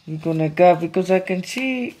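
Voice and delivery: talking around a needle held in lips; words slightly blocked by a needle; needle in mouth. Real, not acted. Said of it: "sorry, I've got a needle in my mouth".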